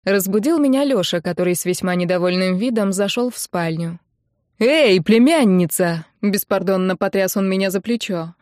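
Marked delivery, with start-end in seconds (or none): 4.6-6.1 оклик. Acted. Дядя грубо будит.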